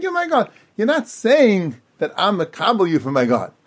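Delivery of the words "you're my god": raised high, a declaring worshipper's quote; mock declaration. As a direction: proclaim it lightly as if to an idol. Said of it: "You're just saying".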